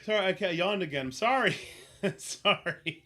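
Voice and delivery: loud, high giggly sorry; breathless laughing sorry; laughing apology. Real, not acted. Laughing apology after outburst.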